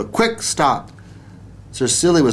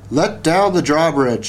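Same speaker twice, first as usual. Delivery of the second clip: calling out; 4 semitones higher than usual. Acted. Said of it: "he called out again".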